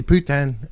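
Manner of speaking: Putin said poo-tan, falling, French style; French-sounding Putin. Shown as a demonstration. Teaching viewers a sweary French word, Putin as poo-tan. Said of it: "in French is fuck".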